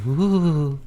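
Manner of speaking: high mock ooh of surprise; a squeaky put-on gasp of wonder. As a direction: imitate a startled high ooh. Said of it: "He landed and went".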